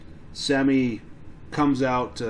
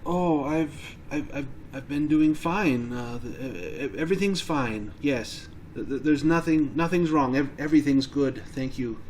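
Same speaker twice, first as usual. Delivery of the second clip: nervous stammer, insisting all is well; timid, halting reassurance; shy, frightened; 2 semitones higher than usual. Acted. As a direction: trip anxiously over the starts of words. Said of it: "she just seems to be incredibly shy".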